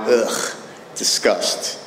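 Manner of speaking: disgusted groan. Retold or imitated. Wife's look of disgust.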